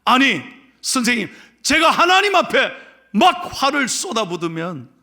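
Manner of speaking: high, loud acted protest; protesting young man. Young man answering the rabbi, acted protest. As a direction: object urgently as the young man. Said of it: "그랬더니 이렇게 말합니다".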